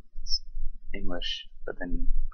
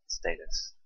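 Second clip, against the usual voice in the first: badass; 4 dB quieter than usual. Shown as a demonstration. Saying status the way he does to sound badass. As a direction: drop it cool and tough, stay-tus. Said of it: "when I wanna sound badass".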